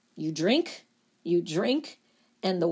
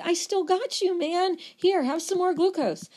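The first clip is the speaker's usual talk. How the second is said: liver; 9 semitones higher than usual. Acted. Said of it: "And the liver's like".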